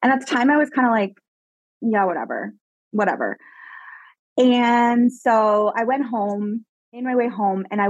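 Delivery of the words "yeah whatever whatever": low, offhand brush-off; dismissive retold reply. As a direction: shrug it off in a lower pitch. Retelling her dismissive reply to mother.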